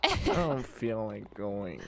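pouty voice. Pretend. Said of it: "you have a really good pouty voice".

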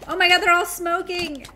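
amused disbelief. Real, not acted. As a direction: drag it out in amazement. Amazed at smoking fish.

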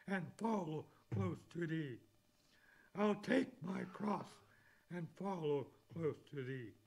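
preacher declaiming hymn verses to the church; fervent hymn recital. Acted. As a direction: build the hymn into a sermon climax. Recites second and third verses.

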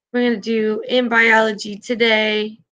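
talking with food in mouth; words round a mouthful; mouth full. Real, not acted. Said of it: "I had food in my mouth".

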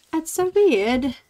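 put-on playful accent, WEIRD drawn out. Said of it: "I don't know where that came from, that accent".

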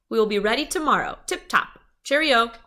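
high, loud, quick phone farewell; chipper sign-off. A narrator's reading. Mother ending the detective's call, chipper and eager.

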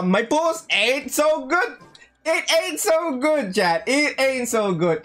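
drawn-out mock whine about bad luck; mock lament. Lamenting bad pulls to chat.

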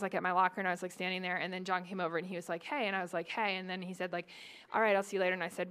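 put-on fast, hushed teen-girl gush; lightly voiced anxious teen girl; gossiping teen girl. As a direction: rattle it off like an anxious teenager on the phone. Teen girl retelling locker chat to friend.

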